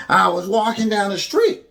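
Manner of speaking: lightly acted testimonial voice; a hint of staged infomercial storytelling. Host mocks the recruit's story, light infomercial testimonial. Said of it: "sounded like an infomercial".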